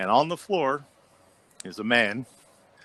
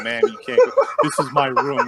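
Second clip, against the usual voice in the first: very high, loud, desperate squeal; frantic wife; 6 semitones higher, 7 dB louder than usual. Retold or imitated. The wife blocking staff from her room, high panicked squeal.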